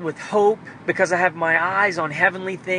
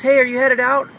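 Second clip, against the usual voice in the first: higher and louder, mom's bright call; imitating mom; 7 semitones higher, 5 dB louder than usual. Son imitates mom asking if he's heading out, higher and louder. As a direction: mimic mom catching him packing. Mom voiced in a retold scene.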